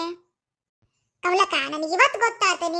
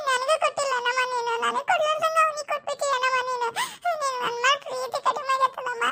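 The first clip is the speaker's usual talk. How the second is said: mock crying complaint; 3 semitones higher than usual. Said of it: "first ಅಳದ್ ನಿಲ್ಸಿ ಮಾತಾಡು".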